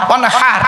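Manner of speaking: "ওয়ানহার" with the h breathed from the throat; throat pronunciation. Shown as a demonstration. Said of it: "এই গলার ভেতর থেকে এটা উচ্চারণ করবে". (গলার ভেতর থেকে "ওয়ানহার")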